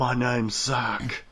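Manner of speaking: slow, drawn-out mock brooding line; mock emo Cloud. Host jokes about an emo remake hero, mock brooding. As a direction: lightly play a moody emo hero, slowly. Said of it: "It's gonna be like".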